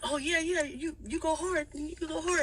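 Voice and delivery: cheerfully big him up; boyfriend hyping. Retold or imitated. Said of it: "And babe's like".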